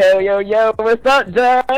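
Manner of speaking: high-pitched, squeaky voice over the phone; falsetto. Real, not acted. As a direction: sound like you sucked helium. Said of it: "You sound very high pitched".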